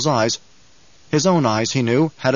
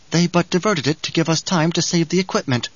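higher, lightly voiced desert woman; Chani's voice; 4 semitones higher than usual. Chani reports to Paul on the diverted worm, lightly voiced higher. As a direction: report it as a woman character, pitched up.

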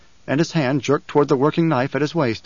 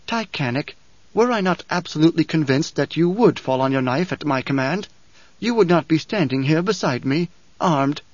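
fake calm; 3 semitones higher than usual. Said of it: "She spoke with a false calm, her voice heavy".

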